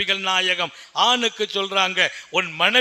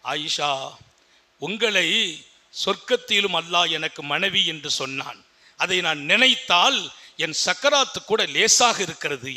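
tender murmur; 4 semitones lower than usual. Retold or imitated. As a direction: speak gently as if from a deathbed. Dying prophet speaks tenderly to wife. (கணவர் மனைவியிடம் மென்மையாக பேசும் குரல்)

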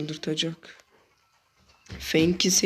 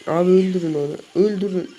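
shouted order; 2 semitones higher, 7 dB louder than usual. Real, not acted. Urging teammates to kill an enemy.

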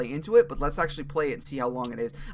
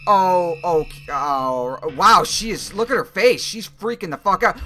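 rattled; 7 dB louder, slower than usual. Real, not acted. Reacting to scared girl onscreen.

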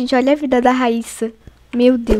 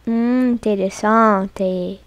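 mock pondering; 6 semitones lower, 5 dB quieter, much slower than usual. Slow low mock pondering.

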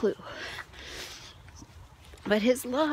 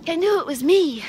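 louder tearful cry, pitch up; 7 semitones higher, 7 dB louder than usual. Real, not acted. The speaker, overwhelmed by the vision, crying out. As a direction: push it out through real tears. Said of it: "Sorry to be crying so much".

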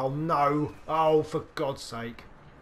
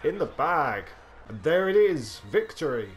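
pitched up, loud triumph; high voice; 5 dB louder than usual. Real, not acted. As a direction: crow the victory high. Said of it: "My voice went very high then".

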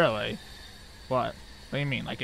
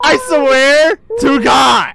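a slow furious I swear to God; exasperated slow shout; 3 dB louder, slower than usual. Real, not acted. Player fuming at teammate who got him killed, slow shout. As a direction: drag it out, fed up and loud. Angry after dying.

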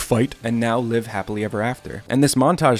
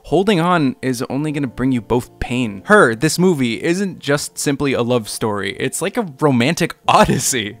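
Nerd Writer voice; 3 dB louder than usual. Pretend. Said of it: "that was my Nerd Writer voice".

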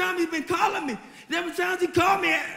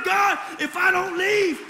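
desperate plea; slower than usual. Retold or imitated. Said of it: "I became so desperate that I said".

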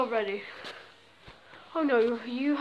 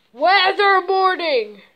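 louder, slower, dramatic alarm; loud announcement; 4 semitones higher, 6 dB louder, slower than usual. Shown as a demonstration. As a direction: proclaim it like a siren warning. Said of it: "Let me tell you something".

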